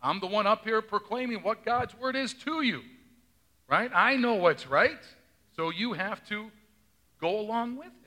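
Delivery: lightly mocking self-important pastor; mock pastor ego. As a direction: play the smug preacher, half joking. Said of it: "pastors can have a bit of an ego".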